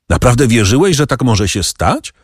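mild bitter reproach; a hint of reproach, understated. Morel answers the count with mild bitter reproach. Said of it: "z gorzkim wyrzutem".

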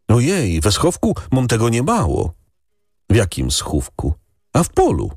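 put-on high, tearful village boy; peasant boy. A narrator's reading. Boy tells the lady, high and tearful. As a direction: speak as a guilty little shepherd boy.

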